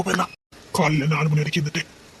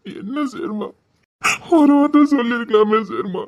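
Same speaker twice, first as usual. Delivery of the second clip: tearful lament; 3 semitones higher than usual. Acted. Man mourns his lost beloved.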